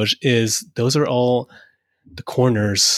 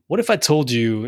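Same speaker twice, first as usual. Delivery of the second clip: normal talking voice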